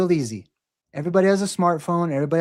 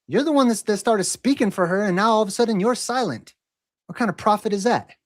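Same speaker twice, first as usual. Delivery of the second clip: higher, pressing indignation; heated challenge; 5 semitones higher than usual. Real, not acted. Streamer calling out a chat troll, higher and indignant. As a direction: call out the fake prophet, higher and heated.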